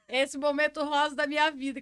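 words through a laugh; half-laughing. Real, not acted. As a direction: laugh as you name it. Laughing at near-death memory.

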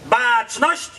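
slow barked parade commands; drill sergeant. Real, not acted. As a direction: call out commands to the flag guard. Flag-raising ceremony commands.

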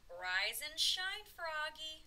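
loud, slow, rising singsong call; wake-up call. A narrator's reading. Father wakes Froggy for school, calling out. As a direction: stretch it out to rouse a sleeper.

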